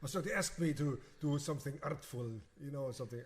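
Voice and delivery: light imitation of a Russian accent; lightly imitating a Russian pianist's accent. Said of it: "she has this really Russian accent".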